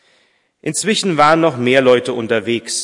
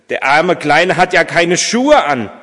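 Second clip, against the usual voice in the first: higher, louder pitying exclamation; raised voice full of concern; concerned dismay; 7 semitones higher, 6 dB louder than usual. A narrator's reading. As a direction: fuss over the poor little one. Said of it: "sagte Vater Martin kopfschüttelnd".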